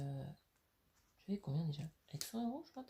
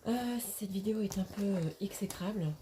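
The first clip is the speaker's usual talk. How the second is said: chuchoté; 2 semitones higher, 4 dB louder than usual. Real, not acted. Aside about the video.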